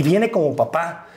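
slow, careful parrot-like repeat; parroting slowly. Retold or imitated. Young host repeating the lip-read words to the crowd, slow. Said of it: "como perico repetí".

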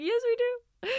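very high, whiny mock plea; mock-tearful insistence. Herself insisting on a goodbye hug, mock-tearful high whine. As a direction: squeak it in an imitated weepy protest.

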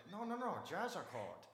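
mock Asian accent. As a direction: insist in an imitated Asian accent. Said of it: "You can't fake that accent".

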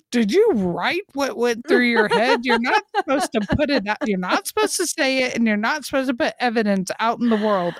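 a lightly voiced inner scold; scolding herself. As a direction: tell yourself off in a rush. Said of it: "I'm like".

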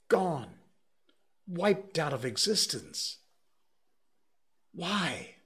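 rising to high anguished cries; distraught lament. A narrator's reading. Curate mourning his church, rising to a high cry.

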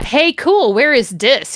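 lightly voiced whiny emo teen; a hint of a mopey emo kid. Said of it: "he asked in an emo voice".

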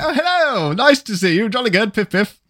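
hammed-up posh English, jolly and high; mock posh English accent. Poking fun at his own English accent, hammed-up posh English. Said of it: "I put on an English accent".

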